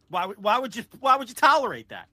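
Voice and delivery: high-pitched incredulous question. Acted. Co-host argues newcomers would leave, high incredulous question. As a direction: pitch it up in disbelief. Acts out put-off listener's reaction.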